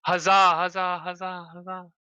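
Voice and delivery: loud, high cheer fading. Acted. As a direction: cheer it, then let it echo. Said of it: "She goes".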